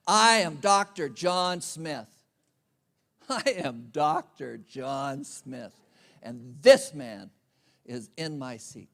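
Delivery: slow, self-important announcement of his title; mock the puffed-up doctor, drawing out each word; lightly hammed-up arrogant doctor; pompous doctor. Pompous doctor demanding seat.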